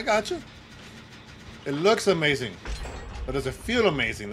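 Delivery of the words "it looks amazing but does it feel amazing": "looks" and "feel" set against each other; stress on contrast. Real, not acted. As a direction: lean on "looks", then on "feel". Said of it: "That's two different things".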